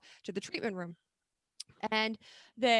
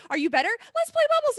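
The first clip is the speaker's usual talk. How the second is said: very high, loud cutesy voice; cutesy car voice; 9 dB louder, faster than usual. Retold or imitated. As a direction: squeal it like a toy. Imitating the car.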